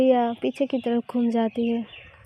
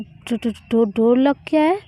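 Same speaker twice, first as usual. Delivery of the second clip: alarmed stammer; 6 dB louder than usual. Acted. Shocked at locked door.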